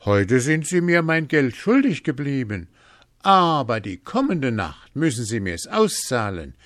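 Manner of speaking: high, animated boasting; boastful calling out. A narrator's reading. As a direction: call your big news across to someone. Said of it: "Hans rief ihm entgegen".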